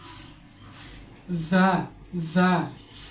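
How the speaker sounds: স and জা with a sharp hiss between the teeth; teacher models the whistling sound; hissing letter sounds. Shown as a demonstration. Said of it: "এই ধরনের একটা আওয়াজ হবে". (স ও জা শিস দিয়ে উচ্চারণ)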